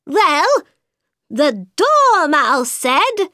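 high, slow hatter; high nervous hatter; Mad Hatter voice. A narrator's reading.

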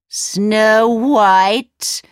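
a startled cry of the name; queen can't believe her ears; mock outraged surprise; shocked cry. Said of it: "cried the wicked queen".

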